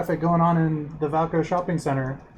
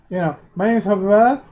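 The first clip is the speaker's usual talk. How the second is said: stuttering pickup line; 4 dB louder than usual. Acted. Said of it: "he just stutters the whole time".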